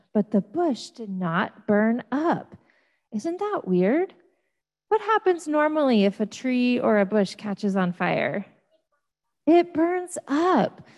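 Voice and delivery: animated storytelling voice with big pitch swings; story for children. Acted. Pastor reading the burning bush story to children, animated. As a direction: tell it like a picture book for kids.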